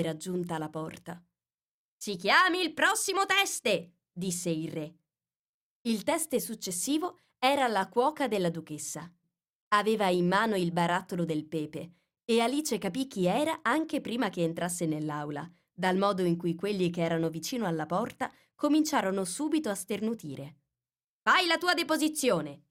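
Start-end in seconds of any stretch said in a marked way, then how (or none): 2.0-4.0 high, slow royal summons; lightly voiced king calling out; king's call. King calls the next witness. 21.2-22.6 high, loud royal command; pompous king barking an order; king's order. Acted.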